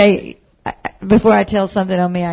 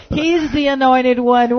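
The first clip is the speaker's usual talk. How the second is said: slow, higher, louder half-shout; mock self-scold; 5 semitones higher, 4 dB louder, slower than usual. Real, not acted. Wife mocking herself for snapping at her husband, slow half-shout.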